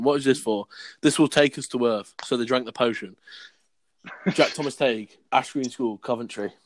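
deliberate schoolboy-story reading; story read aloud. Acted. Reading his old school story to friends, read-aloud voice.

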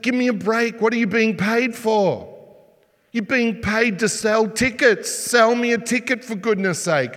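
half-hammed irritation at a lazy clerk; impatient imitation. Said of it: "this is what she does".

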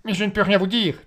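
high, loud outburst; Marley crying out to the lieutenant, sudden cry. Acted. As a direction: burst out of a stupor. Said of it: "cria soudainement Marley".

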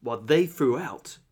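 slow eighties trailer read; drawn-out mock action tagline. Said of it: "eighties action type of tagline".

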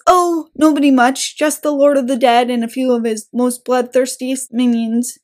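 dry sarcastic reply. Retold or imitated. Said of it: "He's, like, sarcastic".

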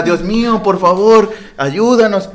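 a hint of a woman crying out to God; imitating a praying woman. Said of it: "la señora gritando". (imitación leve de señora gritando rezos)

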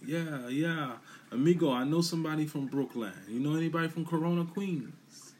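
put-on a high, loud Mexican accent. A Mexican man asking about Queens, in a high Mexican accent. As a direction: play an excited Mexican guy hearing Brooklyn. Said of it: "you say Brooklyn in Mexico".

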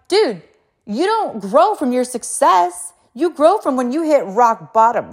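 high, drawn-out emphatic coaching; acted pep talk. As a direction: drive the lesson home to a kid. Pep talk to her kids.

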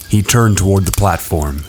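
plain reading voice

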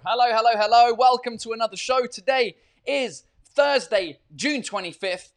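loud, bright welcome to the live audience; booming hello to open the show; excited show opener. Real, not acted. Host greeting his viewers live, loud and excited.

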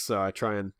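ordinary talk

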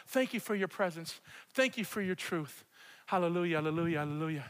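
earnest worship prayer, rising then settling; praying aloud. Real, not acted. Pastor leads church in prayer, earnest worshipful praying. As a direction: lead the room in heartfelt prayer to God.

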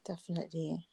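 breathy whispered agreement; whispering. Real, not acted. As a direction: whisper it, barely voiced. Quiet agreement at the end.

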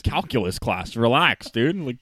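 mocking a friend's voice; lightly imitating a buddy's drawl; impression of friend. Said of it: "an impression of me as you".

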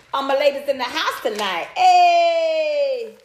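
high, laughing crowd-hype shout; hype call to the ladies. Pretend. Vlogger hyping her female viewers, laughing hype shout.

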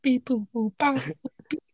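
soft beeping game babble; Animal Crossing voice. Pretend. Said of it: "can you speak in Animal Crossing?".

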